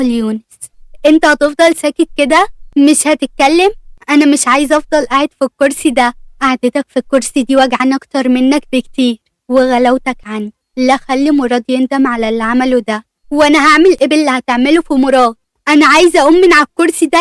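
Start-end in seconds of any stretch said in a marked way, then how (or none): 1.1-6.1 agitated. Acted. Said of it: "مصطفى بانفعال". 13.3-17.2 higher and louder, near a cry; frustrated protest. Acted. Daughter in wheelchair protests.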